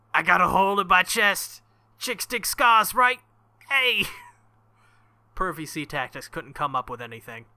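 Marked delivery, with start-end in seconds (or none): 0.1-3.2 loud, high, hammed-up teasing yell; mock yelling. Teasing Saber about his chest wound, hammed-up yell. 3.7-4.1 mock yell. Yelling at Saber.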